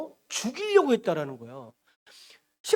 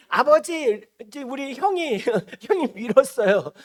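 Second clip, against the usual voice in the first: louder whiny-child tattle, lightly acted; tattling little brother; 3 semitones higher, 6 dB louder than usual. Joseph complains to father about his brother, tattling. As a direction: run to father and tell on the brother.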